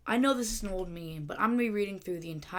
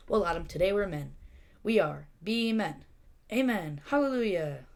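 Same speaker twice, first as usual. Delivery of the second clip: mock cheer; 3 semitones higher, 6 dB louder than usual. Bees cheering at graduation.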